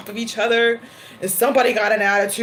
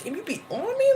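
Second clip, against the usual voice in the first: exasperated complaint; 9 semitones higher, 5 dB quieter than usual. Retold or imitated.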